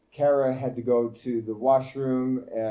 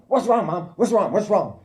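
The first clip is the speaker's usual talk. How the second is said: put-on alarmed kids; 8 semitones higher, 4 dB louder than usual. Sleepy boys woken by mother.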